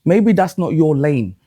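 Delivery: drawn out slowly, like a gentle warning; slow knowing advice. Retold or imitated. Telling the panel slowly what experience taught him. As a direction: spell out the lesson slowly. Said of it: "my experience with black women just said".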